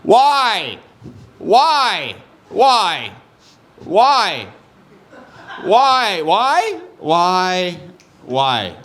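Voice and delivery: put-on stuck drunk, loud and high, fading out; drunk guy. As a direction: keep hitting the same letter, from high wail down to puzzled. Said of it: "a really drunk guy trying".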